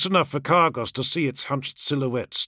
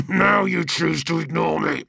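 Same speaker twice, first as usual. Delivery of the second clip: higher, amused, laughing delivery; 3 semitones higher than usual. Acted. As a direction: laugh the words out. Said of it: "Kargos laughed".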